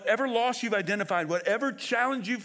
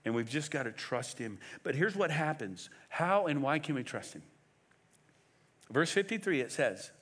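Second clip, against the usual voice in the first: ordinary delivery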